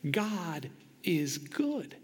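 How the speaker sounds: hushed proclamation. Retold or imitated. Liberians constantly proclaiming it.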